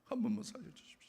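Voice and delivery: breathy whispered plea, almost no voice; a broken whispered prayer for his wife's life; pleading whisper. Retold or imitated. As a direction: beg God in a whisper. Retold tearful prayer.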